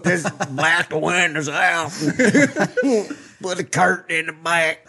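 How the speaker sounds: high, laughing through the words. Real, not acted. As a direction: barely get the joke out for laughing. Laughing through his own van joke.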